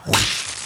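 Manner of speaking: sharp whooshing whip noise; quick whoosh of a lash. Acted. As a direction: imitate a whip slicing the air. Imitates a whip cracking.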